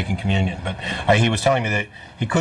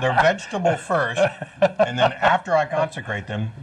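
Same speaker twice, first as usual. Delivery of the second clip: laughing; 5 semitones higher than usual. Real, not acted. Joking about consecrating crackers.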